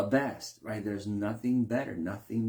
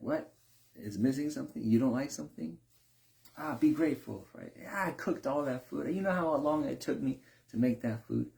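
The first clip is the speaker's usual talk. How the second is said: offended cook; 5 semitones higher than usual. Retold or imitated.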